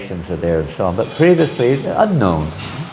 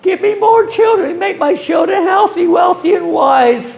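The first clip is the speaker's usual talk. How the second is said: mock pleading prayer. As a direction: whine to God like a greedy child. Mocking worldly prayers at temple.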